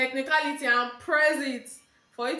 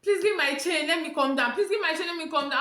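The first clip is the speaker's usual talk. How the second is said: higher, insistent plea; re-enacted urgent begging, pitched up; mock pleading; 5 semitones higher, 4 dB louder than usual. Passenger begging conductor for her change, insistent pleading.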